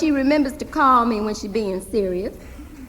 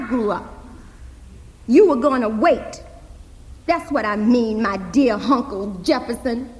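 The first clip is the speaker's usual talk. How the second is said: put-on indignant girl; 2 semitones higher, 4 dB louder than usual. Hazel correcting her uncle and reminding him of his promise, indignant. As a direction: spell it out to him deliberately.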